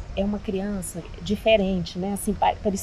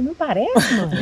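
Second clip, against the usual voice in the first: incredulous retort; 3 semitones higher, slower than usual. Retold or imitated. Daughter answering her mother in mild disbelief. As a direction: throw her words back at her in disbelief. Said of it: "Eu falei".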